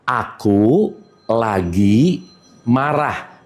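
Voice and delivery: low, drawn-out imitation of someone sulking; a hint of a sulky grumble; imitating an angry person. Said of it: "suka ngomong gini".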